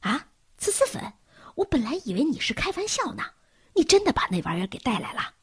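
hushed fast alarmed whisper. A narrator's reading. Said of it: "布茨惊恐地注视着布鲁茨".

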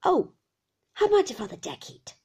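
loud, whining demand; loud old man's singsong; old man's cry. A narrator's reading. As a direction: cry it out as the fierce old shopkeeper. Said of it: "cried the old man".

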